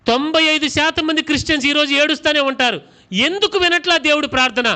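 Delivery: preacher raising his voice to the crowd; rising challenge. Real, not acted. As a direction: push the question at the congregation. Preacher challenging crying Christians.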